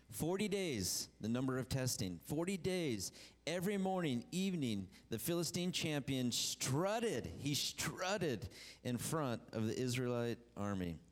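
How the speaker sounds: preacher stressing the forty days; emphatic scripture reading. Acted. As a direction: build the scene as you read.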